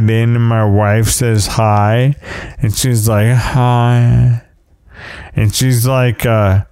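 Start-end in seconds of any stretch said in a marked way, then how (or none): 3.3-4.4 imitating a wife's limp, drawn-out hi; deflated greeting. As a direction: let the word sag like a sad trombone. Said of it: "deflating Ziploc bag combined with a sad trombone".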